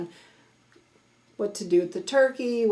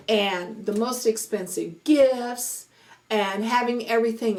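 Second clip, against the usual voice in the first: preachy. Real, not acted. Vlogger reminding viewers what the Christmas season celebrates, preachy. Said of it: "I got on my preachy voice".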